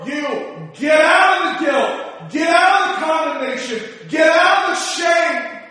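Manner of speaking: commanding preacher, punching each "get out"; forceful exhortation. Acted. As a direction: drive the crowd out of their guilt.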